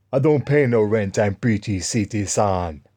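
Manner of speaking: lightly mimicked African accent, slowing at the end; mock the man's African accent; imitated African accent. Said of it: "black African".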